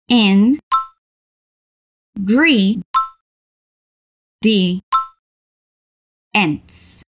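"In gre-di- Ents" broken into separate syllables, long pauses. Shown as a demonstration. Teacher models ingredients for learners to repeat, syllable by syllable. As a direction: sound out "In gre-di- Ents" slowly, one piece at a time.

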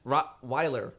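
"Rottweiler" in two parts, clear L; careful Rottweiler. Shown as a demonstration. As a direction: say "Rottweiler" as rot, then wiler. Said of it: "How do you say it?".

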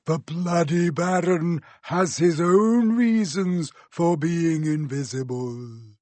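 slow, rasping whisper; hoarse whisper. A narrator's reading. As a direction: disguise your voice in a rasp. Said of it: "in a hoarse whisper".

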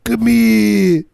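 high, hammed-up fake British accent. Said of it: "a weird fake British accent".

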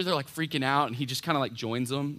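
normal talking voice

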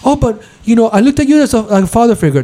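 high, wounded whining imitation; mock whiny sister. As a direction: play her as a hurt little girl.

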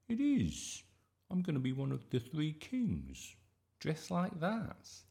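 put-on high, eager child's voice; excited boy. A narrator's reading. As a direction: insist on it like an excited kid. Excited boy defending his costume plan.

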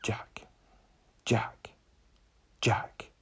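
hushed, voiceless calls, spaced apart; imitated sinister figure. Undertaker figure calling to a frightened child in bed, sinister whisper. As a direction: whisper the name slowly, like a lurking phantom. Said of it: "and then he starts going".

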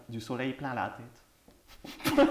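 slow, stretched fake English accent; mock English accent. Quiz host reading a title in a bad English accent. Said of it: "Mon accent va de pire en pire".

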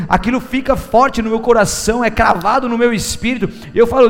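ordinary talk, nothing marked

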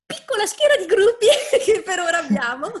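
laughing through the words. Real, not acted. Laughing at tiny fan group.

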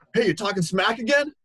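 loud, high-pitched accusing call; retold confrontational challenge. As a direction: imitate a riled-up stranger picking a fight. Retold angry challenge from stranger.

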